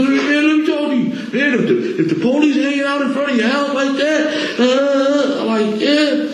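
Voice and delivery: high-pitched retelling broken by laughs; giggling through the buddy's warning; laughing imitation. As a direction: mimic him way up high while cracking up. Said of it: "He said".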